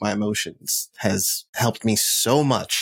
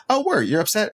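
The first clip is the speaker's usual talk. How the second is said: mock surprise; 11 semitones higher than usual.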